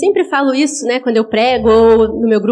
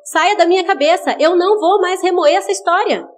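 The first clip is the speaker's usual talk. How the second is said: firm rebuke; 5 semitones higher than usual. Shown as a demonstration. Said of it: "você vai repreender e vai dizer".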